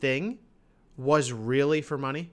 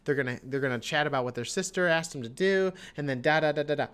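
retold excited reaction; 5 dB louder than usual. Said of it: "And I was like".

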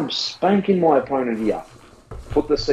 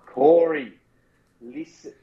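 half-whispered mock Shaq; slower than usual. Coaching his co-host in a hushed Shaq voice. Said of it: "doing your Shaq voice".

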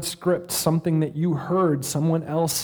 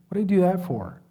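acted anger, pitched higher; angry self-berating; 5 semitones higher, faster than usual. Shown as a demonstration. Preacher showing how he really talks to himself, angrily berating. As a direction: scold yourself in frustration. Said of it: "It's always angry".

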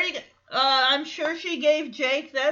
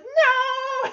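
defiant no; 6 dB louder than usual. Retold or imitated. Stephanie refuses, arms crossed.

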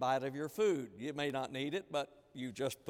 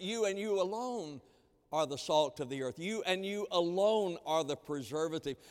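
"you and you alone" lifted and weighted; stress on YOU ALONE. Retold or imitated. Preacher telling Christians it's their job, emphatic "you alone". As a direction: press each "you", then stretch "alone". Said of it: "because this is emphatic".

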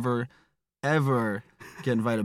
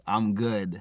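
put-on quiet, casual teen slang; kids' slang; 4 semitones lower, 5 dB quieter than usual. Shown as a demonstration. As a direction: say it like the cool kids do. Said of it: "it's like the way the kids say it".

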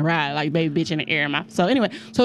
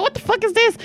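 retold disbelief; 12 semitones higher than usual. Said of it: "I'm like".

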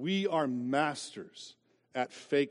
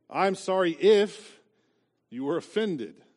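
fake apology; 5 semitones higher, 6 dB louder, slower than usual. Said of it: "apologies like this".

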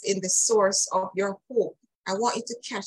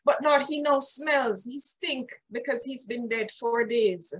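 higher-pitched imitation of a protest; retold protest, pitched up and easing down at the end; 4 semitones higher than usual. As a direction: object urgently, voicing someone else. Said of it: "Martha protested. Martha said".

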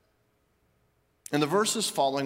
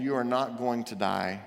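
reassuring; 5 semitones lower than usual. Acted. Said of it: "he assures him here".

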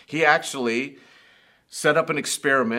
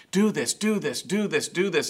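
pouring out; 5 semitones higher than usual. Retold or imitated. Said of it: "It all comes pouring out of him".

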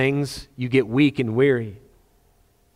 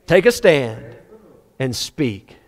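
laughing exhortation; much slower than usual. Acted. God's command, laughing.

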